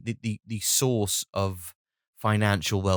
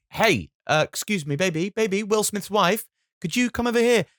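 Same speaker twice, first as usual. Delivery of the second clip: much higher, vain movie star; a star who forgot his family's names; self-absorbed star; 9 semitones higher than usual. Retold or imitated. Will Smith calling his family by role, high and vain. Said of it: "'cause you go".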